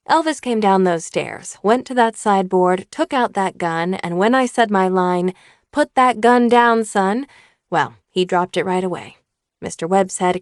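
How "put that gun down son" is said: slow, louder firm command. Retold or imitated. Mother firmly orders her son to drop the gun. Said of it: "I was going to say it firmly".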